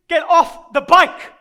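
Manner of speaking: loud, slow, forceful order; stern command. Acted. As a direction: order the kid off, loudly, word by word. Orders kid off the bike.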